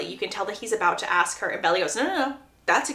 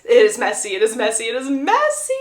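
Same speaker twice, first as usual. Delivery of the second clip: dramatic gossip aside; 5 dB louder than usual. Real, not acted.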